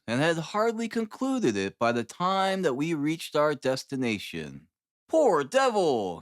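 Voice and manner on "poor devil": a touch of pity, slowed and lifted; commiserating. Acted. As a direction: sympathise with him gently, drawn out. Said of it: "he said commiseratingly".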